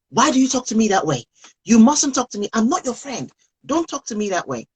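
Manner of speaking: sharp scolding mom, rushed then dropping off; mock scolding. Mom scolding a rude teenager, mock sharp. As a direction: snap at the teen like a cross mom. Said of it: "not as".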